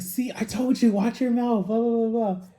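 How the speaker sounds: mild mock scolding; mock I-told-you-so. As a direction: needle her like a smug friend. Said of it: "But John was like".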